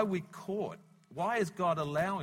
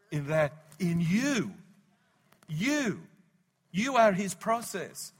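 loud, high preaching; preaching shout; 3 semitones higher, 7 dB louder, slower than usual. Real, not acted. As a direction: drive it home with force. Preaching climax.

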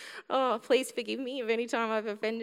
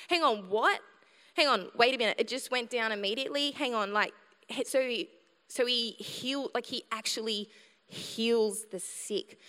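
amazed newcomer. Retold or imitated. Unsaved visitor hearing of healing, stunned and amazed. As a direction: play the dumbfounded unsaved visitor. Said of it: "They're gonna be like".

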